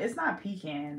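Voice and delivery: "pecan" as pee-can, rhymes with tin can. Shown as a demonstration. Rejecting a pronunciation, "pecan" said pee-CAN. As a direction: say "pecan" with a short A ending. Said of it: "that don't sound right".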